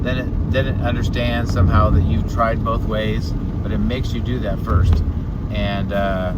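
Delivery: talking while the car bounces; on a bumpy road. Real, not acted. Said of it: "man, this road is so bumpy".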